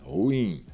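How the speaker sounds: ruim said as ru-im, two separate vowels; ruim syllable by syllable. Shown as a demonstration. Teacher showing students how ruim is spoken, split apart. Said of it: "veja como é falada".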